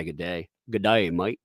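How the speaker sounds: amateur Aussie accent attempt; broad Aussie vowels in "mate", tried by an outsider. Shown as a demonstration. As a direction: have a rough go at an Aussie accent. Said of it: "Can you try an Aussie accent".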